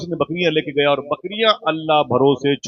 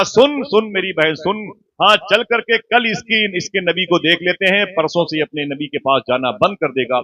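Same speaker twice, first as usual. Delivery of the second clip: emphatic aunt; 5 semitones higher than usual. Acted. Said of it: "जुमला reverse करता हूँ साहिबो". (खाला का ज़ोरदार, ऊँची आवाज़ में दोहराया जुमला)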